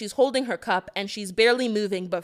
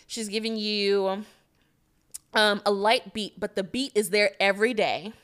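a hint of prep-school pretty girl; Amanda. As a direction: lightly play a boarding-school girl from Connecticut. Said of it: "pretty girl voice sound like a white girl named Amanda".

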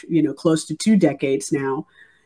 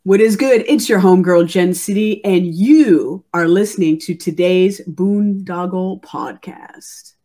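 promo ID. Acted. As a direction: hype up the show like a radio ID. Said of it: "cut a promo I D for the show".

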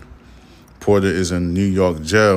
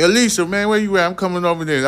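much higher, fake-casual call to a friend; pretend phone call; 10 semitones higher, faster than usual. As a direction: fake an excited call to get away. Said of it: "just lie and be like".

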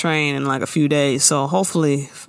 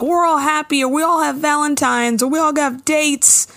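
mocking friends; 8 semitones higher than usual. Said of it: "where they're all like".

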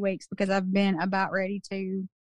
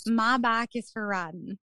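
"My bike is for riding" with flat, short I's, "bike" like "bak"; relaxed Southern drawl; natural country accent. Shown as a demonstration. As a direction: say it the way you normally talk, country vowels. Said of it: "the way you would normally say it".

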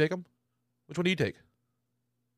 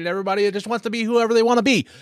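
stoned; 9 semitones higher, 4 dB louder than usual. Real, not acted. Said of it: "I'm really high right now".

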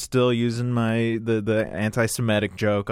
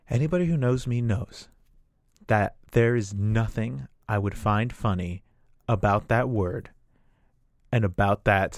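mild mock solemn offense. Audience member rebukes the comic, mildly stern retelling.

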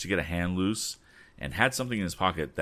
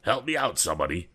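pleading; 3 semitones higher, faster than usual. Acted. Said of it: "pleaded Andy".

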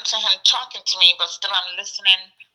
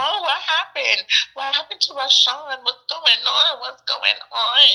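retold urgent, higher-pitched questioning; higher, insistent retelling of alarmed questions; alarmed daughter; 6 semitones higher than usual. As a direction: imitate a daughter pressing Mom for answers. Daughter reacts to mother crying.

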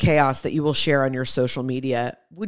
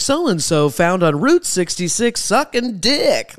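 slow, announcer-like headline read; mock news headline. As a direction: read it like a tabloid headline, slowly. Mock news headline about hypocrite.

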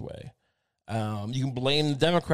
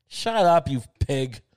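mock yell; 4 dB louder, slower than usual. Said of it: "I could come out and be like".

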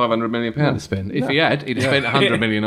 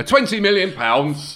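flat asking price; 7 semitones higher, slower than usual. Retold or imitated. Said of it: "And they go".

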